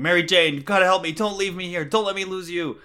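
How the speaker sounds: mock-frantic plea climbing to a cry; frantic pleading. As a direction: build from pleading to a high, loud begging. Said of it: "Peter's crying, frantic".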